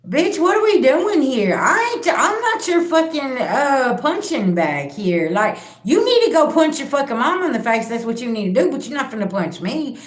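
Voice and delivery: put-on yelling back at a drunk abuser; mock furious shout; retold angry yelling. Retelling telling off drunk partner.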